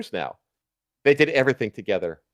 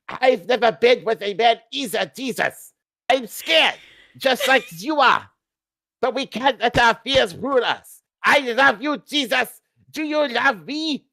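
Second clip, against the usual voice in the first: hammed-up high voice for a nervous lover; falsetto, mock-earnest confession of love; high-pitched Hitler voice; 10 semitones higher than usual. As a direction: pitch way up and plead, mock tender.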